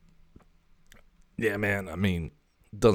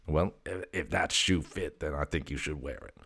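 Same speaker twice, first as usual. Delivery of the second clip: a softer, lightly voiced cat; the cat's sly dig, said softly; voicing the cat Graphite; 6 dB quieter than usual. The cat teasing its owner, a softer sly voice.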